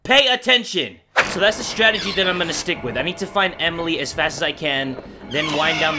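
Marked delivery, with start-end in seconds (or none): 0.1-1.0 frustrated shout. Real, not acted. Scolding himself loudly.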